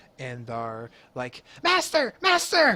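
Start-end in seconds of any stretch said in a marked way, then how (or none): 1.6-2.8 very high, very loud, shrill creature voice. Telling a game story as kobolds come out of hiding, kobold voice. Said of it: "first some kobolds come out of hiding".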